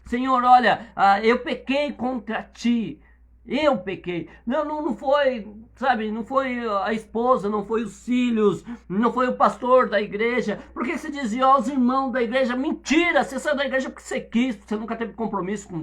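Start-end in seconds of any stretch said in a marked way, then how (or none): 0.0-4.3 louder, slow plea to the Lord; earnest prayer. Shown as a demonstration. Pastor models a sinner's confession to God, pleading. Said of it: "eu preciso de perdão". 12.5-14.7 sharp rebuke. Real, not acted. Rebuking an excuse.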